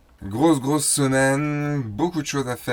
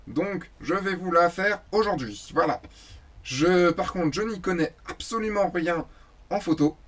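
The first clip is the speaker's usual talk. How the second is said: high-pitched talking plush toy voice; Snoopy; 5 semitones higher than usual. Pretend. Talking plush fills in for the absent host, high puppet voice. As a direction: put on a high puppet voice, as a toy standing in for its owner. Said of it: "une peluche Snoopy qui parle".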